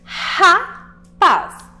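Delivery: "Rapaz" loud and high, R as a throat H, split ra, paz; strong initial R. Shown as a demonstration. Teacher showing pupils the R, throaty R in split "Rapaz". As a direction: breathe out a forceful H for the R of "Rapaz", pause between syllables. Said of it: "O som do R foi forte".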